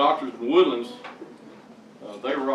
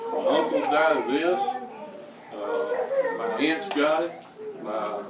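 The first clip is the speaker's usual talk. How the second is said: fighting back real tears while telling it; choking up; 4 semitones higher than usual. Real, not acted. Testifying to the church, choking up with real tears. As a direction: voice breaking with tears on the higher words. Tearful retelling of family illness.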